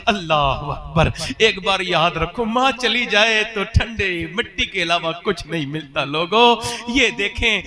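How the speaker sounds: loud, fervent call to the congregation; fervent preaching. Acted. Preacher exhorting the gathering, loud and fervent. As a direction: cry it out to the crowd like a preacher.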